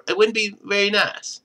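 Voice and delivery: ordinary delivery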